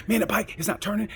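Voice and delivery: high, whining gripe instead of yelling; whiny complaint. Retold or imitated. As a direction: moan about the bike like a sulking rider. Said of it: "he wouldn't yell, but he'd".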